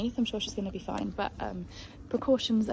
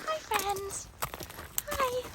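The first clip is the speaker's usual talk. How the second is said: horse's voice; 11 semitones higher, 6 dB quieter, much slower than usual. Pretend. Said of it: "She says".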